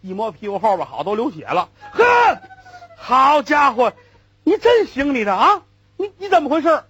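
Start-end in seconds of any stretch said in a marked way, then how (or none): 1.9-6.8 loud and high, furious at the puller; angry yell. Acted. Hurt passenger shouting at the rickshaw puller, loud and angry. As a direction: shout it out, stung and outraged.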